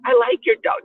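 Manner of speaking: put-on high, friendly white-girl voice. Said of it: "talking to another white girl".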